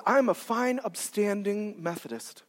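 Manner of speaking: slow, understated imitation of a proud churchgoer; self-satisfied churchgoer. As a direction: say it slowly, lightly mimicking self-righteousness. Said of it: "I had a woman tell me that one time".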